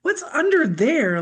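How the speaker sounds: puzzled what. Retold or imitated. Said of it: "I'm going".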